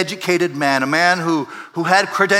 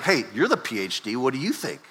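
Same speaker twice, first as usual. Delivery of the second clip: softer, lightly mocking deference; a little sarcastic; 3 semitones lower, 5 dB quieter than usual. Jesus turns the question on the PhD, mildly sarcastic. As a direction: needle the expert with a swooping question. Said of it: "he's being a little bit sarcastic".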